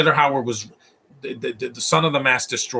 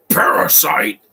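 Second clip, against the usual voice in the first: laughing exclaim; 3 semitones higher, 5 dB louder, slower than usual. Real, not acted.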